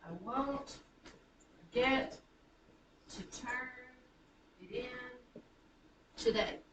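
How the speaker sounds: "I won't forget to turn it in today" with pauses between feet; iambic scansion. Shown as a demonstration. Teacher points out the feet, pausing after each in "I won't forget to turn it in today". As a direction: separate each foot, weight on its second syllable, in "I won't forget to turn it in today". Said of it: "sentence written in iambic".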